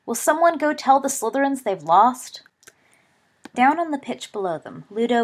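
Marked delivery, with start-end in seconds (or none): 0.0-2.4 loud, higher stadium announcer call; announcer's cry. A narrator's reading. Announcer declaring the Cup winner to the stadium, loud and high. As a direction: proclaim it to the whole crowd.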